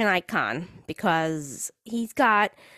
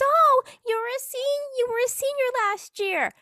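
high-pitched voter lady; 14 semitones higher than usual. Retold or imitated. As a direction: voice of the lady at the booth. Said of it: "she goes".

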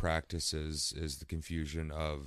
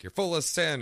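higher, louder mock condemnation; mock accuser; 11 semitones higher, 8 dB louder than usual. Scolding someone for being a born sinner, mock preachy accusation. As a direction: exclaim it as a mock rebuke from on high. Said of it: "just being like".

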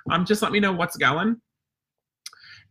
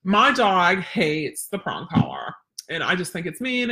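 mock worried owner; slower than usual. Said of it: "people are saying".

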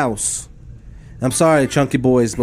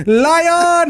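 excited shout; 14 semitones higher, 4 dB louder than usual. Real, not acted. Laughing outburst.

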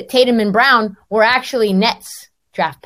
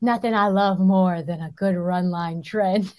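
laughing; 3 semitones lower, 6 dB quieter than usual. Retold or imitated. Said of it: "He's like".

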